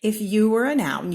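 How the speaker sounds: loud announcing refrain; ringing refrain; excited refrain. A narrator's reading. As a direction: proclaim it like a chapter title. Refrain proclaimed.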